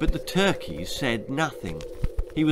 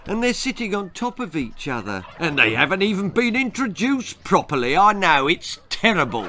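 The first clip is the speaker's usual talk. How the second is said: put-on upset child objecting; dismayed boy; 5 semitones higher than usual. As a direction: build up in indignant distress. Boy protests, increasingly upset.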